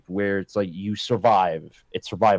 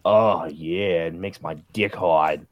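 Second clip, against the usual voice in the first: a hint of a nerdy guy voice; fat nerd voice; 4 semitones lower, slower than usual. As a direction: lightly put on nerd voice, drawn out. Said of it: "He was making a fat nerd voice".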